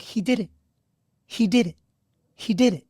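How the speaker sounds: high, choked and crying; barely getting the words out through tears; tearful. Real, not acted. Host reliving his player's commitment, crying. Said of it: "I'm crying on the podcast".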